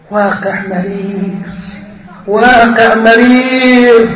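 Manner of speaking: very slow, heavy, drawn out; bitter lament. Acted. The comic ends on bitter reality, slowly. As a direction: let each word sink with regret.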